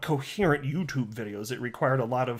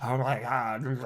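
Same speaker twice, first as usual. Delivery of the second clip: mocking eager troll; 3 semitones lower, much slower than usual. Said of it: "I assume that's what they sound like".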